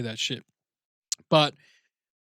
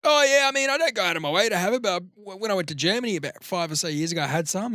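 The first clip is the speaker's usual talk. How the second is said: imitating Wolfgang; 4 semitones higher, faster than usual. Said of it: "He's like".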